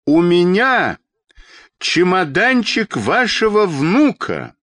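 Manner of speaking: high, drawn-out desperate shout. A narrator's reading. Children's doctor with the grandson's suitcase, desperate shout. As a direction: shout up high and loud, stretching it. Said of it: "в полном отчаянии крикнул".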